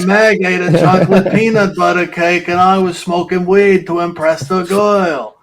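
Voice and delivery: lightly voiced Peter Griffin; a hint of a dopey cartoon dad. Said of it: "Peter's driving the car".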